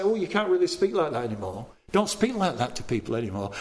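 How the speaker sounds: low, hurried tut-tutting; mild mock objection. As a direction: mimic a disapproving objector, quick and low. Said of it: "We can't have a Lord and say".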